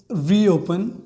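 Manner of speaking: "reopen" said slowly, each syllable clear; example word demo. Shown as a demonstration. Teacher models "reopen" as an R-word, slow and clear. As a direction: spell out "reopen" in sound for the class. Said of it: "just like".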